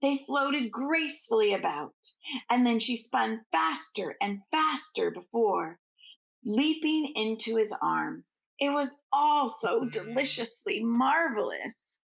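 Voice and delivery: gentle bedtime storytelling; storybook narration. Acted. Reading the Nutcracker aloud to children, gently paced. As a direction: read it like a picture book to little ones.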